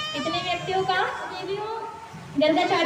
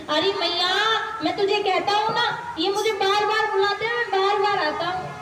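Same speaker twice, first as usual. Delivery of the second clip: put-on child Krishna; 2 semitones higher than usual. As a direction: plead like a small child caught out. Child Krishna insists to mother.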